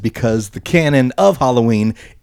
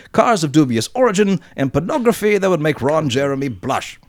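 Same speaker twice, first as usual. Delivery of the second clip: put-on worst Blackpool accent. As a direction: read the listener email in a mock Blackpool accent. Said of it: "read it in my absolute worst accent".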